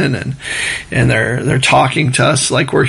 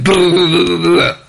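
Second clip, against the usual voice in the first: fast-forward babble; 4 semitones higher than usual. Retold or imitated. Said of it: "you hit fast forward button on their mouth".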